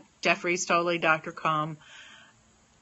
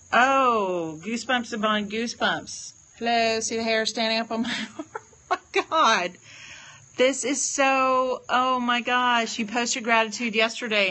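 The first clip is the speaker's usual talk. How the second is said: high, louder thrill of amazement; awed excitement; 4 semitones higher, 3 dB louder than usual. Real, not acted. Awed by the card's reading.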